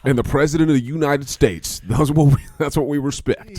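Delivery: loud, high cowboy proclamation; gunslinger patriot. Acted. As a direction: declare it as a swaggering mock patriot. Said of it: "like you got six shooters".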